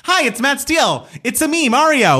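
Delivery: very high, exaggerated Italian cartoon accent; Mario's Italian accent. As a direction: pipe up like a cheery audition in a mock Italian accent. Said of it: "gotten in that booth and been like".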